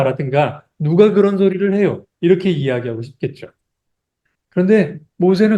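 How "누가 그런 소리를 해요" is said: imitated indignant retort, raised pitch; mock protest. Believer answering an unfair accusation, mildly indignant mock retort. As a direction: push back lightly, higher voice. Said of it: "변호를 하고 싶을 것 같아요".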